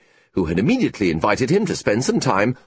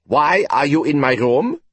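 sharp, raised indignant question; indignant surprise; 5 semitones higher, 4 dB louder than usual. A narrator's reading. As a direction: demand it, startled and affronted. Finds rival at his desk.

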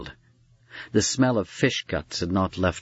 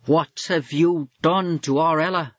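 wife's high, loud shriek; mother's shrill accusation, much higher and louder; 8 semitones higher, 3 dB louder than usual. A narrator's reading. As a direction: shriek it at him in outrage. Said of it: "the wife shrieked his way".

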